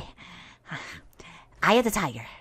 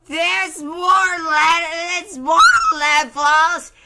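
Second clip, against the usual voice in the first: despairing whine; slower than usual. Real, not acted. Dismay at more levels.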